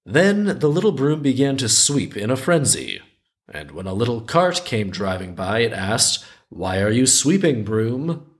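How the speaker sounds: measured folktale reading with lilting rises; story narration. A narrator's reading. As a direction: read it like a children's tale, lingering on phrase ends. Reads the folktale aloud.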